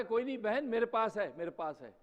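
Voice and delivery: aunt reassuring. Retold or imitated. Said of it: "تو خالہ کی آواز آئے".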